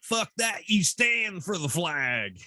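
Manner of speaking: mock Southern redneck drawl, slow; redneck affect. Man mocks flag-waving non-vets in a slow Southern redneck voice. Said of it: "I always go into a redneck, uh, affect".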